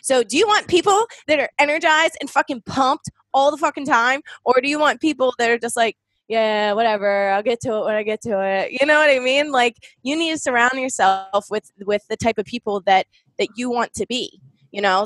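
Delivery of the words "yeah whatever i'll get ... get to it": mildly mocked couldn't-care-less; mellow indifference. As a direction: act like you'll get round to it eventually. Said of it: "just mellow and".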